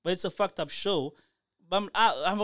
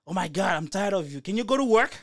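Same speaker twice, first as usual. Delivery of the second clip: exasperated retold outburst, climbing higher and louder; annoyed girlfriend; 4 semitones higher, 4 dB louder than usual. Woman tired of her robot boyfriend, mock annoyed. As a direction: act out being fed up with someone. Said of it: "She start getting annoyed".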